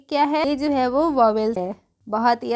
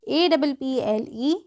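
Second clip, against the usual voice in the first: slow spelling out; slower than usual. Shown as a demonstration. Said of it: "तीन तरीके से इसका उच्चारण होता है".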